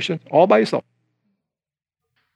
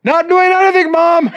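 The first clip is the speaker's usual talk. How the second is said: put-on much higher, innocent-sounding child voice; child caught at the cookie jar answering his mom, high and innocent; guilty child denying; 11 semitones higher, 3 dB louder than usual. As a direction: play the caught kid, squeaky and innocent.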